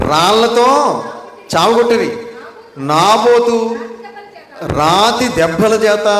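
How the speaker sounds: slow, measured Bible reading with pauses; solemn scripture reading. Acted. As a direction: read the verse out word by word, weighty. Reads scripture passage aloud.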